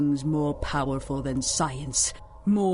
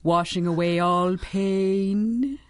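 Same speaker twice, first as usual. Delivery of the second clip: hypnotic; much slower than usual. Acted. Villain hypnotising drugged girl.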